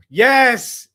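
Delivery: high, loud yes; real triumphant cry; victory shout. Real, not acted. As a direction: explode with one word. Fan celebrating draft lottery win.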